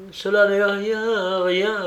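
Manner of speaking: high, slow, mildly tearful; acted sobbing, words drawn out high; voice broken by sobs. A narrator's reading. Battered wife to her rescuers, voice broken by sobs. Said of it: "d'une voix entrecoupée de sanglots".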